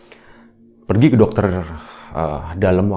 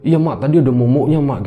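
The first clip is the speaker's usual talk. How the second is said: high, louder imitation of a child; scared child; 6 semitones higher, 5 dB louder than usual. Child answers scolding mother, acted urgent alarm. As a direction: blurt it out as a pleading child.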